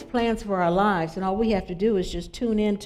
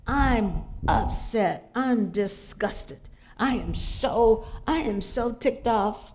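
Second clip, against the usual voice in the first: slow, mildly voiced upset friend; lightly imitating a fed-up caller, drawn out; much slower than usual. Imitating the upset friend on the phone, slow and drawn out. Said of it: "I could hear it in the voice".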